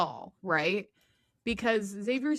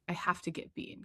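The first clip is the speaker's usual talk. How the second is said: whisper; 8 dB quieter than usual. Retold or imitated. Terry desperate, voice drops to whisper.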